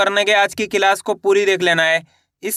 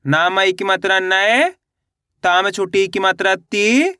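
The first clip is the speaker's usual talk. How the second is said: spelling drill. Shown as a demonstration. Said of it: "इस तरीके से आपको पढ़ना है". (मात्रा जोड़कर खींच-खींचकर पढ़ाना)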